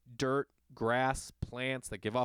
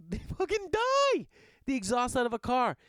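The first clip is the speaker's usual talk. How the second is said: cracking up mid-rant; laughing outburst; 10 semitones higher, 5 dB louder than usual. Real, not acted. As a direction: laugh it out in disbelief. Shocked laughing outburst about exhaust.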